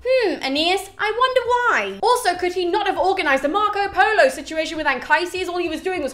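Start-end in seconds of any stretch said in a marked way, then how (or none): 0.0-2.0 high-pitched mock pondering; sarcastic. Reader answers Aeneas's clueless question, sarcastic. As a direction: pretend to wonder, heavy with sarcasm.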